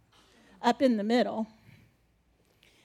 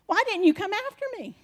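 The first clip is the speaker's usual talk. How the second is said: pleading to Jesus; 8 semitones higher, 3 dB louder than usual. Retold or imitated.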